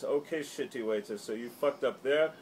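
hammed-up bullying customer; mocking bully voice. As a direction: scold the waiter with a sneer. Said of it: "And he goes".

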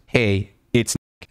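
slow, drawn-out mock of "Hey, it's Nick."; slow mocking read. Shown as a demonstration. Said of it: "Like, you're declaring things".

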